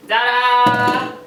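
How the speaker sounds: ta-da. Real, not acted. Unveiling flipped lava cake.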